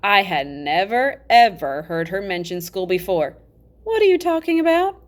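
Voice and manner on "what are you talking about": high, loud alarmed question; startled boy. Acted. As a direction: blurt it out in alarm. Boy startled overhearing about school.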